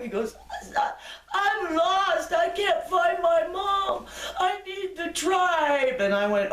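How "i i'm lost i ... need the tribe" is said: put-on very high, slow child's cry for help; a frightened small boy calling out for his mom; lost little boy. Lost boy begging a stranger for help, very high child voice.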